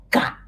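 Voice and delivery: "ga" with a hard stopped g; "ga" without nasal sound; strong ga. Shown as a demonstration. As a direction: hit "ga" with a firm g. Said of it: "Strong ga".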